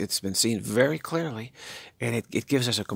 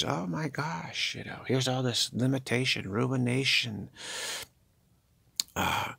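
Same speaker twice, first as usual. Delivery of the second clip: mock dismay; 3 semitones higher than usual. Prime Creator waking to limitation.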